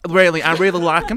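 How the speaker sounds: American talk-show counsellor impression; put-on American voice; Doctor Phil. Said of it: "Doctor Phil, how are you?".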